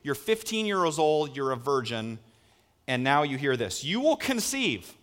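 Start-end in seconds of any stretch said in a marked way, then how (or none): 3.8-4.9 slow, high angelic proclamation. Acted. Angel appearing to young Mary, slow high proclamation. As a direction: announce it slowly from on high, raised pitch. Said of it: "an angel of the Lord appears to you".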